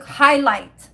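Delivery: loud eureka blurt; sudden recall. Real, not acted. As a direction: blurt it out the moment it comes back. Remembers the product name.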